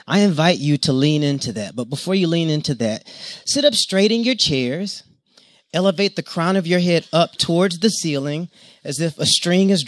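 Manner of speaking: calm, steady guiding voice; guided yoga instruction. Acted. Yoga teacher guiding the congregation's breathing, calm. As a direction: lead the room through the posture.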